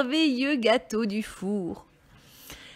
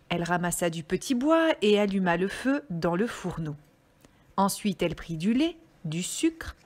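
measured, melodic storytelling; story reading for children; 2 semitones lower than usual. Acted. Reader telling children about the little red hen, storytelling voice. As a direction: read it out like a picture book.

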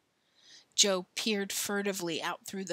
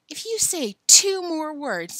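threatening; 9 semitones higher, 6 dB louder than usual. A narrator's reading. Threatening a fight.

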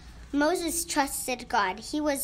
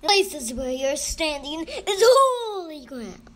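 loud, swelling voice of God; thundering; 3 semitones higher, 8 dB louder than usual. A narrator's reading. God warns Moses at the burning bush, thundering. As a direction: proclaim it in a big booming shout. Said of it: "said the voice thundering".

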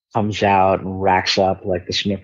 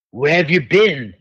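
slow Cockney questioning, pitched up; higher, slow Cockney; Cockney accent; 5 semitones higher, 3 dB louder than usual. Retold or imitated. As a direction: imitate a Cockney interrogator, drawn out. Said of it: "like, a Cockney accent".

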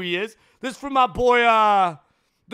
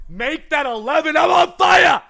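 excited boast; 3 semitones higher, 6 dB louder than usual. Real, not acted. Counting good pulls.

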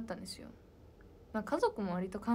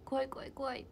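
lightly mimicked scaredy-cat, pitched up; 5 semitones higher than usual. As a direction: imitate a friend's mock-scared chant. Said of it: "とかずっと言ってます". (高めの声で怖がる友達の軽い真似)

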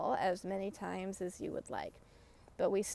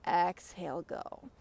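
mantra demo. Shown as a demonstration. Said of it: "So it's just over and over again".

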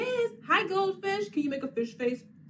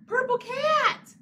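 gasping, much higher purple cat; mock surprise; 12 semitones higher, 8 dB louder than usual. Teacher shows kids the picture, mock amazed. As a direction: gasp in delight at the picture. Gasps at the page.

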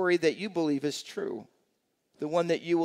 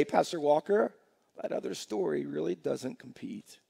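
convinced congregant; 3 semitones lower, 6 dB quieter than usual. Retold or imitated. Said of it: "you'll be able to say".

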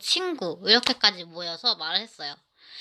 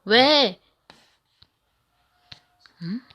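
irritated retold yelling; annoyed outburst; 3 semitones higher than usual. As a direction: mimic her scolding the bully. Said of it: "이렇게 막 짜증을 냈죠".

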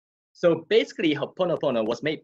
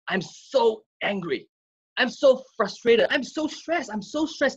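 higher, strained complaining voice; mock stressed whining; 9 semitones higher than usual. Wellness coach imitating people who complain they're stressed. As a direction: act out someone moaning about stress. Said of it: "Usually they say".

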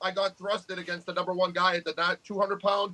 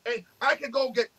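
imitated angry rant at an online troll, higher pitch, a cry in the voice, slowing down near the end; mock rant at troll; 4 semitones higher than usual. Telling off a YouTube troll who brags about curls, in a hammed-up angry rant. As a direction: tear into the troll in a mock tirade. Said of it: "I'm like".

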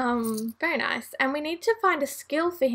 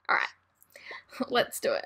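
whispering; 5 dB quieter, slower than usual. Real, not acted. Quiet aside before aging up.

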